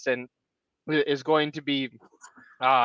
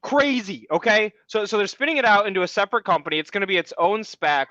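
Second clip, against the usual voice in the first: higher, pumped-up stock rant; rant mode; 3 semitones higher than usual. Real, not acted. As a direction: launch into an eager rant. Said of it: "we're going full rant mode".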